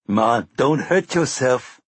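easy Jamaican drawl; Jamaican accent. Acted. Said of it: "in a powerful Jamaican accent".

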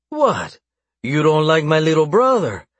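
high, mocking taunt. A narrator's reading. Captor mocking captive's shudder at his brother, taunting. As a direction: needle the captive with a high-pitched mock question. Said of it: "he taunted".

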